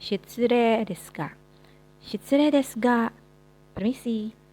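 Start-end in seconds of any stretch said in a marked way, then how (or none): 0.0-3.1 shitsurei as shitsuree, long e held; teacher drilling the long e; long e reading. Shown as a demonstration. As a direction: stretch the e in shitsurei, slow. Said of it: "dijadikan penambahan panjang pada huruf E".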